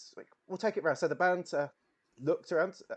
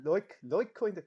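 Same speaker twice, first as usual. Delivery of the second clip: West Country accent; 4 semitones higher, 3 dB louder, slower than usual. Shown as a demonstration. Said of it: "I went West Country".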